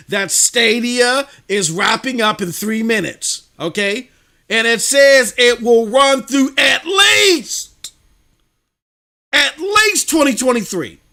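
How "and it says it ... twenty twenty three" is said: loud, slow, insistent; emphatic. Real, not acted. Host stressing the date to his co-host, loud and slow. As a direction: lean hard on the date.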